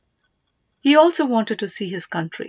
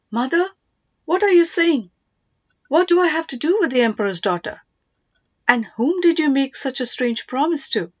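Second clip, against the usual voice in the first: higher, disbelieving questions to mother; incredulous protest; 5 semitones higher than usual. Acted. Son protesting his mother's strange marriage promise, incredulous. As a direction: push back in bewildered disbelief.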